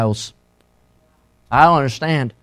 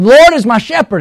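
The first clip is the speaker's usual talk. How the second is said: put-on higher, louder childlike recitation; nervous girl reciting; 7 semitones higher, 5 dB louder than usual. Little girl retrying her psalm before church, nervous. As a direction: imitate a nervous child starting a verse. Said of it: "She kept getting nervous".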